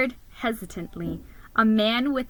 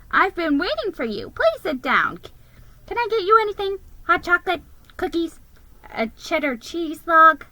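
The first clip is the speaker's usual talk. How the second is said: higher, bright hospitable offer; cheery hostess; 8 semitones higher, 4 dB louder, faster than usual. Acted. Mrs Claus offers treats, cheerful and fussing. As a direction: fuss over the guest kindly. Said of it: "she beamed".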